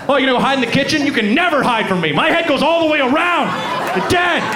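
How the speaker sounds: rising, mocking threat; taunting owl threat. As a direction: tease the owner then go for the kill.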